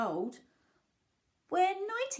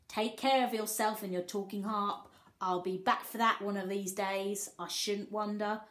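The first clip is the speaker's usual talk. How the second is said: a lightly voiced cheeky boy, louder; cheeky Jack voice; 4 dB louder than usual. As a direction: read the postcard as cheeky Jack. Jack's postcard voiced.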